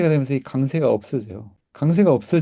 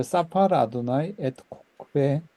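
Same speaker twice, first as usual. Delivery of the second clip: slow, careful Hebrew recitation for students to repeat; teacher modelling a verse slowly; slow model reading. Shown as a demonstration. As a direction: read each word slowly and clearly. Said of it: "한번 읽어보죠".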